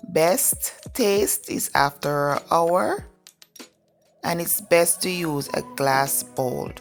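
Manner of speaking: groggy morning voice, just woke up; rough, sleepy morning voice. Real, not acted. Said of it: "please excuse my morning voice".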